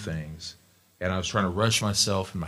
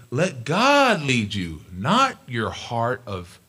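friend's advice; 7 semitones higher, 3 dB louder, much slower than usual. Retold or imitated. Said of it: "He'd say".

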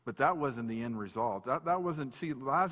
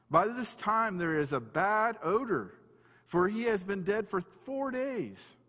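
slow, higher, emphatic reading of a quote; scripture reading; 7 semitones higher, slower than usual. A narrator's reading. Martha warning Jesus at the tomb, emphatic scripture reading. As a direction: read out the objection deliberately, stretching key words.

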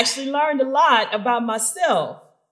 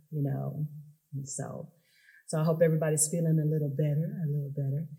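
soft, low breathing coach; soft spa whisper; 3 semitones lower, 4 dB quieter than usual. Shown as a demonstration. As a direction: count them gently toward sleep. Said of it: "is what's called box breathing".

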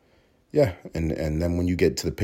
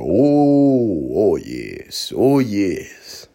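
mock old film servant; 3 semitones higher, 6 dB louder, much slower than usual. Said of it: "go on film and go".

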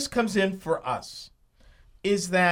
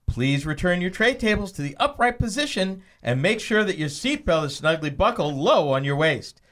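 flight attendant. Pretend. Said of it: "do the whole flight attendant thing".

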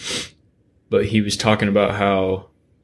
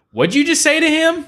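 put-on much higher, louder indignant old-lady voice; offended old lady; 5 dB louder than usual. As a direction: play a shocked old lady. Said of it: "the old white lady behind him was like".

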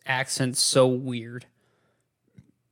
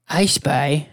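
lightly voiced Canadian accent. Shown as a demonstration. Moose playing a game, attempted Canadian accent. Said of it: "get in the fucking accent again".

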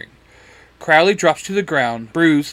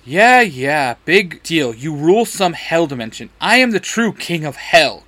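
louder dismissive snap; snapping; 2 semitones higher, 5 dB louder than usual. Acted. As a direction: brush him off, then snap back. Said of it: "Crowley snaps".

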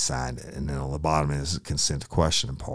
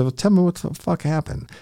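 much higher, louder demand; angry demand; 7 dB louder than usual. Retold or imitated. Officer demanding the truth from the suspect, angry demand. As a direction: snap the demand at him.

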